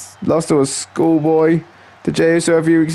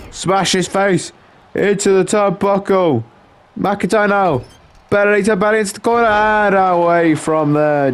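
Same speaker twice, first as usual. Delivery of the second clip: lively wrestling commentary, a little raised in pitch; live play-by-play; 2 semitones higher, slower than usual. Acted. Commentator following Punk and McIntyre, lively play-by-play. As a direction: call the wrestling moves as they land.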